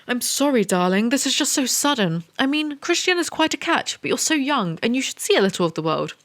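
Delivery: a fussy mother on the phone; lightly voiced anxious mum; doting mother. Voicing Anna's mother on phone.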